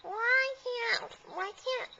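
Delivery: lightly voiced whining kid; drawn-out plea, starting high and sinking; pleading child. Child asks mom for a friend to visit, mildly whiny.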